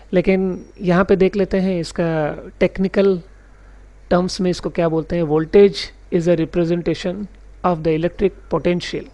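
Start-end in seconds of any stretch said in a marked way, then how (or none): 5.2-9.1 very slow, word by word definition read; slow dictation reading. Shown as a demonstration. Teacher reads the textbook definition to his class slowly. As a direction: read the definition out slowly so students can note it.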